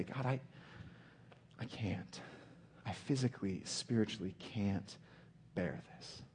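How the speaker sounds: soft, halting plea to God; faltering plea. Acted. Preacher voices Jesus' temptation to tell God he can't, quietly faltering. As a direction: quietly give up, pausing between phrases.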